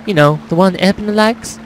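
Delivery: lightly voiced country girl, pitched a little up; a hint of a farm girl; farmer's daughter. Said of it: "make her that farmer's daughter kinda girl".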